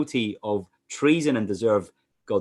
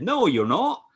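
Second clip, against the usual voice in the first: high-pitched pantomime-style contradiction; playful mock denial, pitched up; pantomime heckle; 8 semitones higher, 3 dB louder, slower than usual. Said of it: "it's not pantomime".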